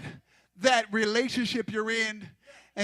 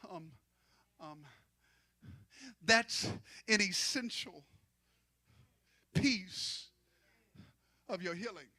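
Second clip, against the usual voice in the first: quiet; 3 semitones lower, 14 dB quieter than usual. Acted. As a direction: hush it down for Jesus' words. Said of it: "And Jesus said".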